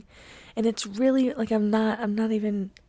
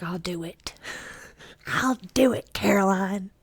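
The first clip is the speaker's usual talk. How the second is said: whispered with a little laugh; grandma whispering an offer in the dark. Retold or imitated. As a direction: whisper it while trying not to laugh. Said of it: "my grandma's like".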